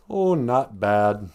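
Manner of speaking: understated, slow "Oh, not bad"; lightly voiced modest Minnesotan. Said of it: "a very modest".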